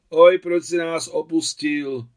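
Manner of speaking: loud, high, drawn-out wail; crying out in lament. A narrator's reading. Maria Ivanovna on seeing the coffin, wailing out. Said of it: "vykřikla Maria Ivanovna".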